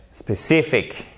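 SPECIFIC slowly, stress on CI; stressed second syllable. Shown as a demonstration. Teacher models for French speakers, stress on CI. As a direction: draw out and punch CI in SPECIFIC. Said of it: "l'accent tonique".

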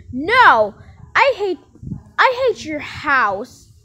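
angry quarrel. Pretend. Kidnapper quarrelling over the house, acted angry yell. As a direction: yell it back with mock fury.

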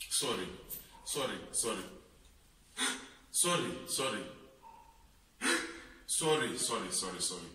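soft soothing apology. Acted. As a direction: hush him gently with sorry, sorry. Pastor soothing softly.

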